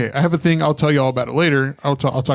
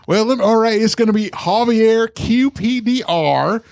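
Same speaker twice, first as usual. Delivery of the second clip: white people voice; 7 semitones higher than usual. Retold or imitated. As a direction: spell it out like a polite white caller. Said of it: "my white people voice".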